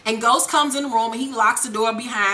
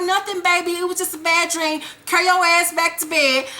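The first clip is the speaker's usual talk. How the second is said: higher-pitched acted brush-off; dismissive mother; 5 semitones higher than usual. Tasha sending her son back to bed, dismissive. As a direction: wave the child off in a raised mom voice.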